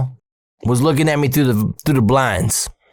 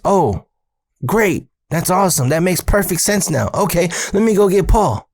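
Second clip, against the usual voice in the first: relieved dad; 6 semitones higher than usual. Retold or imitated. Dad voiced, relieved, higher.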